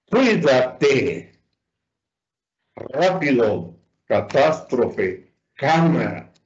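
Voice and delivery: Cuídate, Rápido, Catástrofe, Cámara deliberately, hitting "Cuí", "Rá", "tás", "Cá"; stress on antepenultimate syllable. Shown as a demonstration. Teacher lists examples, Cuídate, Rápido, Catástrofe, Cámara stressed third from last. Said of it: "cuya antepenúltima sílaba es tónica".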